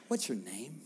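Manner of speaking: soft, gentle asking of "What's your name?"; gentle question. Shown as a demonstration. Jesus gently asking the man his name, soft. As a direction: ask "What's your name?" kindly and quietly. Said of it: "Such a kind, gentle, relational thing".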